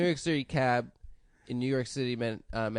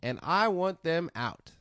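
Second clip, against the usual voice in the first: Steve Harvey joke; 3 dB louder than usual. Retold or imitated. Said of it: "I'm gonna do Steve's joke".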